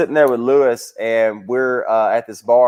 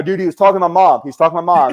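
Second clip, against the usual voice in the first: heated protest; 4 semitones higher, 3 dB louder, faster than usual. Retold or imitated. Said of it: "and I go".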